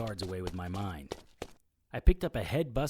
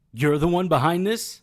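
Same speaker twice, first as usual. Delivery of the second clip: shocked; 7 semitones higher, 10 dB louder than usual. Acted. Captive recognises his captor.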